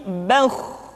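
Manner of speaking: slow "bauh" with rounded heavy vowel; thick kha. Shown as a demonstration. Teacher correcting the thin version, thick sound. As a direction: hold and thicken "bauh" before the kh. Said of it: "menebal suaranya".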